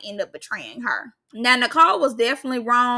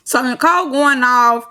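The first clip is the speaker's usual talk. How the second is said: usual speaking voice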